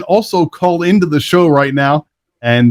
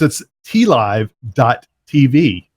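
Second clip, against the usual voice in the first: spelled out slowly; slower than usual. Shown as a demonstration. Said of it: "Yes, T L I V E dot T V".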